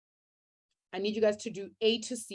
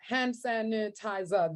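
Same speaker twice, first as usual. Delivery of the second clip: syllable by syllable; slower than usual. Shown as a demonstration. Teacher showing why hand sanitizer has five syllables, sounding it out. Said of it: "Those are five syllables".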